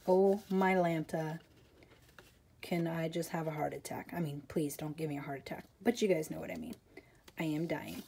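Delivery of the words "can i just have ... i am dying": excited whisper. Real, not acted. Nervous about first in-person teaching.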